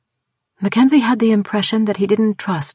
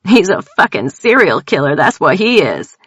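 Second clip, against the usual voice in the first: spat out; 5 dB louder than usual. Acted. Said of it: "Tildy spat out".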